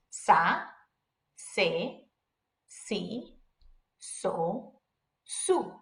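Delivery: Spanish Z said as S: Sa, se, si, so, su; hiss-free S for each Z syllable: Sa, se, si, so, su. Shown as a demonstration. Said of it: "sounds like an S".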